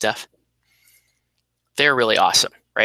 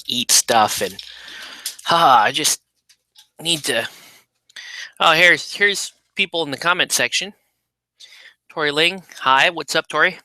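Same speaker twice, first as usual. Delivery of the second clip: talking while eating chips; words around crunchy bites; crunching chips; 4 semitones higher than usual. Real, not acted. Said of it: "apologize for the crunching".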